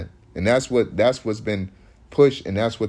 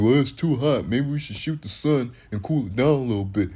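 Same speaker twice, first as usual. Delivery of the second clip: mocking tourist. Mocking tourists wanting to shoot the sun.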